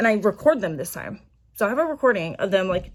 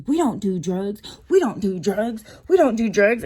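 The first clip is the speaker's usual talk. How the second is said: mock freaking out. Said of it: "she started freaking out".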